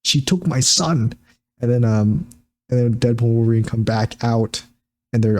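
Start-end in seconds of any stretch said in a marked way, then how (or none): 0.0-1.1 slow, high, put-on blaming voice; Paradox. Paradox blaming Cassandra to the boss, slow hammy high voice. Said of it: "then Paradox was like".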